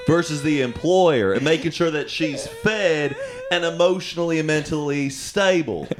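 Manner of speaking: mock Southern courtroom judge; thick Southern accent. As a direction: play a Southern judge opening the hearing. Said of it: "in that thick Southern accent".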